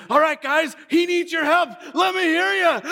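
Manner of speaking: put-on rally the little audience like a children's entertainer; hyped-up children's TV presenter; children's band host voice. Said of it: "watching The Wiggles".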